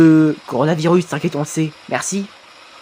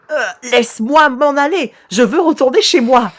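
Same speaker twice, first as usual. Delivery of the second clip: mildly panicked, higher-pitched plea; a touch of acted fear, voice raised in pitch; frightened pleading; 5 semitones higher than usual. Victim begging ghost to let him go, mildly frightened plea.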